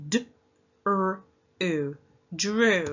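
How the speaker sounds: segmenting each sound, then blending. Shown as a demonstration. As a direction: pinch out D, R, U one at a time then say drew. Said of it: "let's pinch our sounds".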